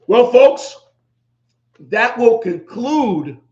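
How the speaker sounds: loud, high host outro, dragging out "that will conclude"; announcer sign-off. Real, not acted. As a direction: call out the wrap-up like a show host. Podcast host's sign-off.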